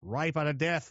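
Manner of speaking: put-on a rough go at an Australian accent; attempted Australian accent. Australia boasting about its deadly creatures, in a shaky Australian accent. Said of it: "I can't do an Australian".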